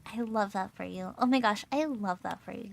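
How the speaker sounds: lightly voiced preppy gushing; a hint of preppy girl in the delivery; preppy talk. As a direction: mildly imitate a preppy catchphrase. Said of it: "I started talking really preppy".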